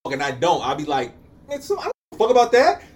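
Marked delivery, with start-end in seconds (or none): 1.5-2.8 loud, high, fast outburst; worked-up retort, imitating an argument; heated dismissal. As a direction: blurt it out dismissively. Retells own dismissive argument line.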